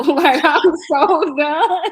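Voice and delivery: giggling through the words; laughing. Real, not acted. Laughing to friends about cutting off a guy. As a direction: laugh while saying you're done. Laughing at her own protectiveness.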